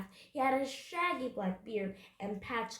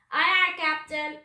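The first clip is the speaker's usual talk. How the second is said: loud, high, eager acknowledgement; high shouted reply to the captain; pirate crew's answer; 6 semitones higher, 11 dB louder than usual. A narrator's reading. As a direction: sing out like obedient deckhands. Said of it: "they answered".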